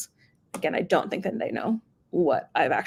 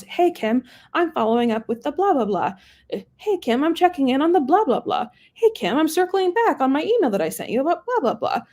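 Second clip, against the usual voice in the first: mock droning rep; 7 semitones higher than usual. Mocking generic rep voicemails.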